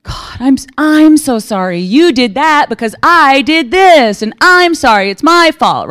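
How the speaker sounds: high, loud, slow mock-tearful apology; mom's gushing apology. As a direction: play the mother overdoing her remorse. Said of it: "she was just gonna go".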